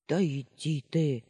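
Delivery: put-on boy dangling in the air, retorting in offense; offended snap. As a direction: snap back, stung. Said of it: "с обидой огрызнулся тот".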